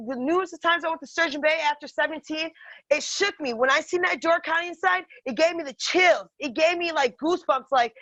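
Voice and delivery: usual speaking voice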